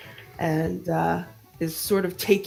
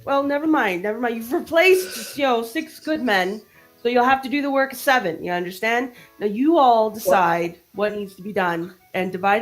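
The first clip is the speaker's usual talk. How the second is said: high, bossy little sailor; tiny mouse voice; 5 semitones higher than usual. Acted. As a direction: bark orders like a tiny officer. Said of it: "in his tiny little voice".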